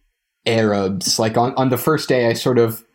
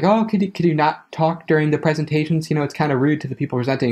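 higher-pitched, quick, tentative polite ask; polite request; 6 semitones higher, faster than usual. Retold or imitated. Group leader asking a guard not to talk during presentations, politely. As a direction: imitate someone politely asking, voice lifted and hurried. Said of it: "sort of politely was like".

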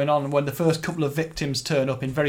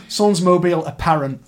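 French accent; 3 semitones higher, 6 dB louder than usual. Shown as a demonstration. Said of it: "trying to do my best French accent there".

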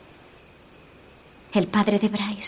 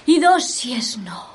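slow whispered medium voice; seance whisper. Acted. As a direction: breathe it out in trance. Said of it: "intentaré alcanzar un estado de trance".

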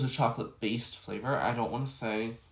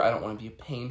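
mocking fake politeness; 2 semitones lower, faster than usual. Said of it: "I don't wanna hear".

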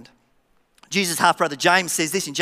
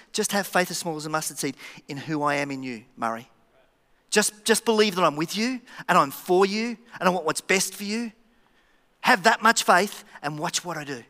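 gentle reassurance. Acted. Jesus telling the preacher to believe, gently reassuring.

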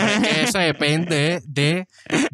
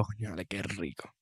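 mock relaxed pleasure; 7 semitones lower, 16 dB quieter than usual. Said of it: "tú me pones una esponja en el S M R y yo".

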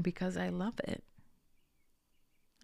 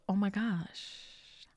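slow, soft, acted-out relish; savouring gratitude; 3 dB quieter than usual. Gardener acting out the better mindset, savouring gratitude. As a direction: draw it out with grateful enjoyment, trailing softly. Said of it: "Instead of".

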